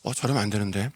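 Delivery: soft, worried murmur under the breath; anxious murmur. Retold or imitated. Martha frets to herself watching Mary weep, anxious murmur. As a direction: fret quietly that it's going wrong. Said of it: "굉장히 초조했을 것 같아요".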